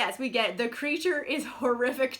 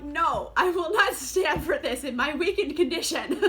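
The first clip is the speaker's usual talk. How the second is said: mock defiance; 3 semitones higher, 4 dB louder than usual. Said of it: "and I'm like".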